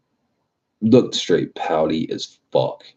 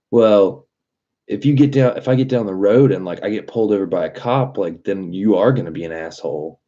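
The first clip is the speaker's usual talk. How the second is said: higher, pushy customer's voice, fast at the end; mocking customer; 4 semitones higher than usual. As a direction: imitate the entitled customer whining back. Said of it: "She was like".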